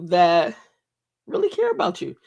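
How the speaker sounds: tearfully moved, pitch breaking upward; real emotional voice. Real, not acted. Host grateful to people who care, emotional. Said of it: "I'm just expressing, you know, those emotions".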